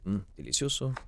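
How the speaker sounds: hammed-up Italian "delicioso" with a savoring hum; light mock Italian accent; poor Italian impression. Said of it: "I'm doing a poor Italian impression".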